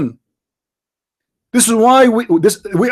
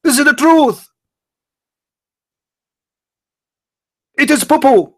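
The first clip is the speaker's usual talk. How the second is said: higher mock crowd chant; imitating church crowd; 6 semitones higher than usual. Speaker imitating the church crowd chanting back at him, higher mock chant. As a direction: echo it back like a whole congregation repeating him. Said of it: "Everybody in the church says".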